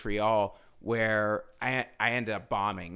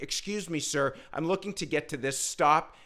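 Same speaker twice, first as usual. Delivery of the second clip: polite tourist; 5 semitones higher than usual. Retold or imitated. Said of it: "I was like".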